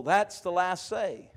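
slow, drawn-out mock concern; slow imitation of someone fretting; voiced worried thought. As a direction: voice the listeners' worry, stretching it. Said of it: "And you're thinking".

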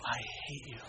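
very low, hushed grumble; muttered resentment. Retold or imitated. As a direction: mutter it darkly under your breath, mock-bitter. Muttering at baby waking him up.

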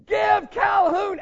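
loud, high, drawn-out yell from the stands; shouting father. Retold or imitated. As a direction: call it slowly across the stadium. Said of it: "and he goes".

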